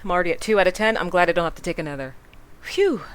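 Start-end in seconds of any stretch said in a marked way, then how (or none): 2.6-3.0 relieved phew. Shown as a demonstration. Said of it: "is what I'll say".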